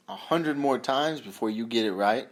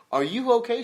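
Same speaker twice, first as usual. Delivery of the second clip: mock concern; 9 semitones higher, 6 dB louder than usual. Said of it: "and I just go".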